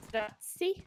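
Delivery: "Strassi" rolled out in a light Italian accent; a quick playful Italian flourish on "Strassi". Shown as a demonstration. Caster naming Team Strassi, in a mock Italian accent. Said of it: "I'm just saying it in an Italian accent".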